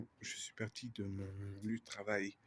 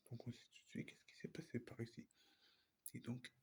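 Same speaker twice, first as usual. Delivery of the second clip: quiet at night; 6 dB quieter than usual. Real, not acted. Whispering in abandoned building.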